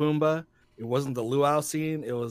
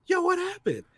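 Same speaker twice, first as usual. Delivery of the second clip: surprised question. Retold or imitated. Asking crowd outside theater.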